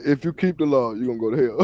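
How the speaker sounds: mocking quote. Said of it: "This dude said".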